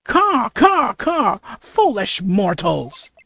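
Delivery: a crow spirit gloating at the mortals; cawing demon. Acted. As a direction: demon crow voice announcing itself. Yokai reveals itself.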